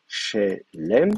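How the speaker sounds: chelem sounded out carefully, stress on the first syllable, SHE-lem; a model pronunciation of chelem for the class; careful demo. Shown as a demonstration. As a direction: articulate chelem slowly and clearly for students. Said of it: "je vais bien le vocaliser pour vous".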